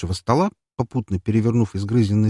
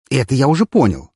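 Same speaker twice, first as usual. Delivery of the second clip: sarcastic; 5 semitones higher, 6 dB louder than usual. Acted. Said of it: "съязвил тот".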